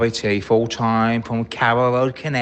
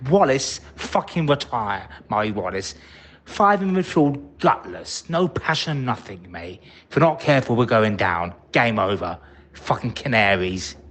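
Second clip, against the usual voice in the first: fuming rant. Real, not acted. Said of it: "sorry for fuming and shouting".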